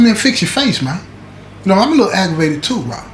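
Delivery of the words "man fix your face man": penitentiary mode. Retold or imitated. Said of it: "I go straight into penitentiary mode".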